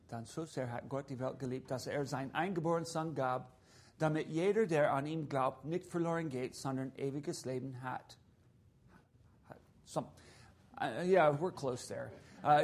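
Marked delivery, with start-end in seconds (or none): 0.1-8.2 German verse read quietly through. Shown as a demonstration. Missionary reading the German verse to the church. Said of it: "I'll quote it to you in German".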